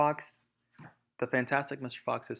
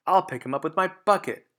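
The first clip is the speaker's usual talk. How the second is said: fast, higher, louder gloating shout; 6 semitones higher, 7 dB louder, faster than usual. Acted. Bunce shouting from his tractor, fast and loud. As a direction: yell it eagerly. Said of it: "shouted Bunce".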